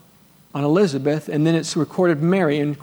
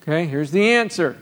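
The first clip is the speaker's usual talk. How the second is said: ordinary talk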